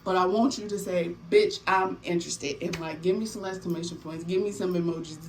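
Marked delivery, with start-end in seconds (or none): 1.3-2.6 punchy, insistent "Bitch, I'm interested"; emphatic. Shown as a demonstration. Coaching viewers on their giveaway comment, emphatic. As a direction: say it so they feel the interest. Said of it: "Let me feel how interested you are".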